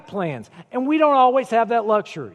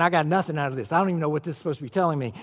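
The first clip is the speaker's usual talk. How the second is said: mock bored Bible reader; 6 semitones lower, 6 dB quieter, much faster than usual. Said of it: "we're sitting here saying".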